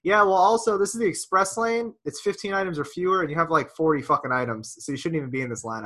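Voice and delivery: re-enacting an exasperated public telling-off; retold fed-up callout. Man scolding woman in the express lane, retold exasperation. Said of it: "I'm so fucking over this".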